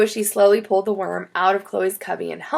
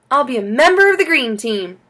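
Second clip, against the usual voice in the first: grinning; 5 semitones higher, 6 dB louder than usual. Acted.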